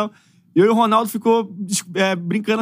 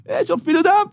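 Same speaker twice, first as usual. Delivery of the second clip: japonês xingando em português, bem mais agudo; grito de brincadeira do jogador japonês; xingamento imitado; 10 semitones higher than usual. Retold or imitated. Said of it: "aí o cara chega japonês". (jogador japonês xinga em português, voz aguda imitada)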